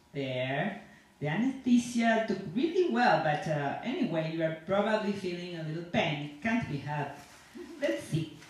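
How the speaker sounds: a lightly voiced dentist with halting English; non-native dentist. Dentist chatting to his patient in the chair, lightly voiced non-native English. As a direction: chat away to the patient as a foreign dentist, only a hint of accent. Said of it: "a dentist who doesn't speak English very well".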